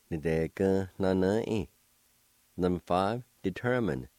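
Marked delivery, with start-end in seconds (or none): 0.1-1.7 "Ni de gun no no in" run together as one word; blended word demo. Shown as a demonstration. Teacher pronouncing word number four for learners, syllables joined up. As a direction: join the syllables smoothly. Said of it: "now I'll pronounce these words".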